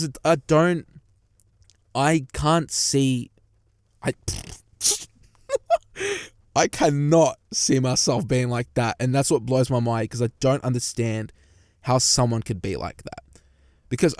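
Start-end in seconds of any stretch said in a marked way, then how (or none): 5.4-9.0 disbelieving laugh. Real, not acted. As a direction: laugh it out, can't believe it.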